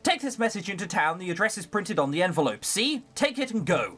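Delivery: stern cook. Acted. Cook ordering the servant girl into the rain, lightly bossy. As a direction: bark orders like a harsh cook.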